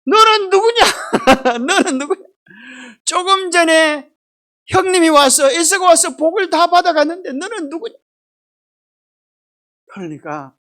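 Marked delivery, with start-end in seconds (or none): 0.0-8.0 put-on higher, louder alarmed old father; startled father. Blind father to Esau, startled, demanding who he is. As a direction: demand who is there in shock. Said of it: "뭐라 그래요?".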